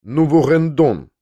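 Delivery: crude, slow Russian-sounding French; awkwardly pronounced French, dragged out; clumsy French. A narrator's reading. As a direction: mangle the French slowly. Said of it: "грубо и неловко выговаривая французские слова".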